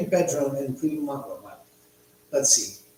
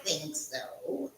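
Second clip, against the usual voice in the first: put-on light South African accent, higher; a hint of South African; 6 semitones higher than usual. Host greeting his mate in mock South African accent. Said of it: "a little bit of an accent from South Africa".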